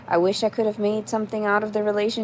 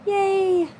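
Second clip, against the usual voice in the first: much higher cheerful "Yay!"; excited yay; 12 semitones higher than usual. Real, not acted. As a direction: squeal thanks for the donation. Thanks donation.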